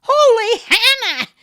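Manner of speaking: startled high, loud shriek; screech. A narrator's reading. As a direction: jump out of your skin. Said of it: "she screeched".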